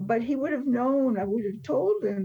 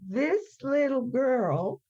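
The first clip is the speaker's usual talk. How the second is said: quoting the professor; 3 semitones higher, much slower than usual. Retold or imitated. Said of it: "these are his exact words".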